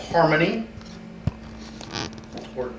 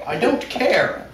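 laughing mock drama; 6 semitones higher than usual. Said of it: "we have a dramatic reading".

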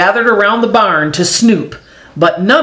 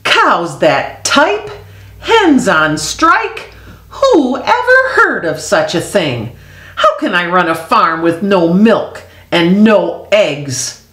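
exasperated farmer. Acted.

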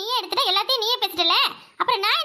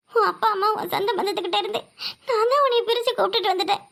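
crying. Acted. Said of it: "என்னத்துக்கு அழுதுகிட்டு இருக்க".

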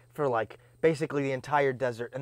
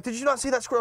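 incredulous question; 10 semitones higher, faster than usual. Retold or imitated. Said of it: "They're like".

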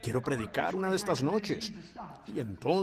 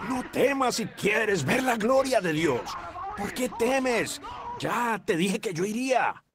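higher-pitched preacher's proclamation; emphatic assurance; 5 semitones higher than usual. Acted. Jesus to a fearful father, emphatic assurance. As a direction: insist with raised, ringing conviction. Voices Jesus firmly reassuring Jairus.

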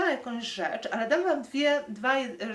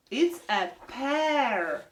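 slow model; 3 semitones higher, slower than usual. Shown as a demonstration. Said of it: "Can you say loud?".

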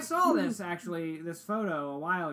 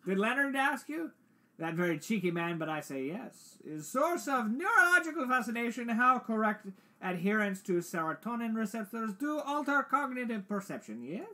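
put-on European accent, pitched up at times; 6 semitones higher than usual. Doctor explains the source to a researcher, mock European accent. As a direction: pile up long words in a mock European accent. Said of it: "European accent".

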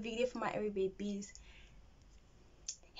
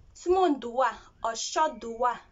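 slow Liberian English phrasing; 5 dB louder, slower than usual. Shown as a demonstration. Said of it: "Liberian say".

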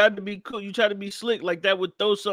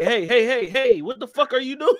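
high, loud mock panic, laughter creeping in; alarmed lawyer interrupting; 7 semitones higher, 5 dB louder than usual. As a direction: cut him off urgently, voice pitched up. Imitating alarmed lawyer cutting him off.

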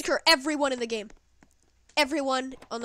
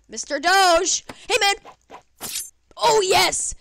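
joyful call; 7 semitones higher, 9 dB louder than usual. Real, not acted. Greeting dog joyfully.

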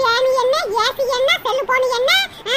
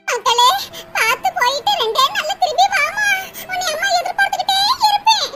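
mock tearful mother; 5 semitones higher than usual. Mother weeps as daughter leaves.

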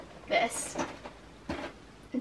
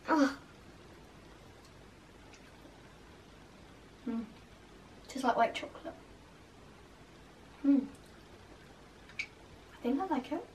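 chewing while talking; tasting sweet mid-bite; mouth full of candy; 12 dB quieter than usual. Real, not acted. Seen 2: Put candy in mouth at -7; jaw and lip movements while tasting.

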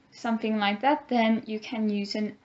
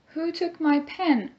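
higher asking tone; demo question; 5 semitones higher than usual. Shown as a demonstration. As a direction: ask around the classroom. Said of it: "it is an interrogative sentence".

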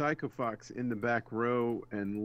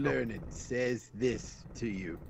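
game oracle voice. Pretend. Reading game text in voice.

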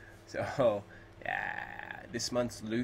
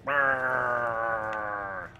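long, droning imitated rumble; held mouth-made buzzing noise; imitated brrr; 4 dB louder than usual. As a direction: drag out a sustained brrr. Noise while playing zombie game.

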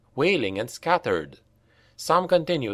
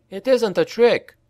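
higher, louder assurance; insisting; 10 semitones higher, 4 dB louder than usual. A narrator's reading. Franz assuring the slaves, higher and louder. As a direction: convince them it's real. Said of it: "said Franz".

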